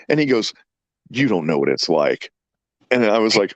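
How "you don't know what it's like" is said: much lower, straight-faced authority; imitating grave conviction. Son telling dad about his mustard suffering, gravely. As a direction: say it low, like a solemn sufferer. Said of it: "he sounded like he had authority".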